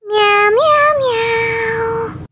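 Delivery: spoken kitty mews; cat meowing. Acted. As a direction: pretend cat meows, last one drawn out. Cat refuses to come.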